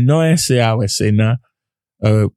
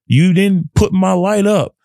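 earnest spoken prayer, building toward the end. Acted. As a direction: pray aloud, grateful, then rising with conviction. Prays aloud.

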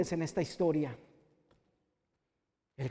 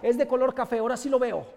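awed joy; 5 semitones higher, 7 dB louder than usual. Acted. Healed blind man marvels.

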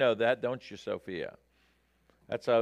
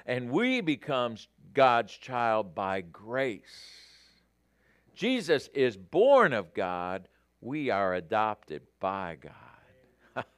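slow, deliberate reading with long pauses; unhurried, weighty pulpit reading; measured quote reading; 2 semitones lower, slower than usual. Real, not acted. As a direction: let each phrase settle, easing down at the end.

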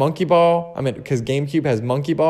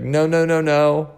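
sing-song no; 4 semitones higher than usual. Retold or imitated. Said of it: "He even said it like that".

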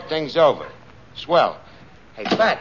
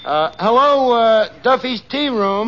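phone greeting; 6 semitones higher, 5 dB louder than usual. Acted. Answering phone in put-on manner.

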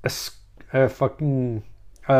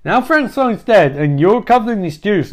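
high, agitated character voice; ranting Yvonne; 5 semitones higher than usual. Acted. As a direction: pile up the complaints in a raised pitch. Yvonne rants at Bobby in story.

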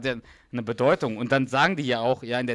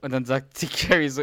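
ordinary delivery

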